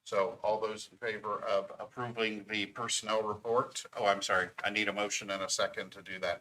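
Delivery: breathless, hurried words; out of breath. Real, not acted. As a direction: talk while short of breath. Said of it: "I'm out of, I'm out of breath".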